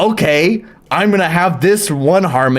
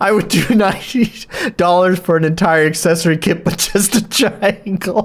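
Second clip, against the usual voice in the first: talking through laughter, tearing up. Trying to go on talking after losing it: laughing while talking, tearing up. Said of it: "I'm tearing up".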